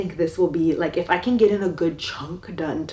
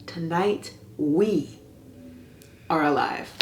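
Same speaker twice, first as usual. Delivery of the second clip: dramatic reading. Acted. Vlogger reads an out of context paragraph to viewers, with dramatic intensity. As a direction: declaim it like the heroine's rallying speech.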